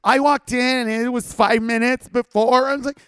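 loud, high, furious tirade at whiny customers; furious rant. Retold or imitated. Ranting at entitled Yelp reviewers, loud furious shouting. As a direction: let it rip, voice cracking with outrage.

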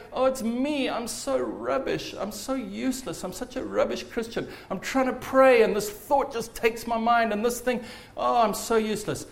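mock self-pity. Believer blaming himself after stray thoughts, mock self-pity. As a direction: act out a despondent self-blamer, half in earnest.

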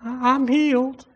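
high, slow, declared with conviction. Shown as a demonstration. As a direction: proclaim it like you mean it. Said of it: "You gotta say it with conviction".

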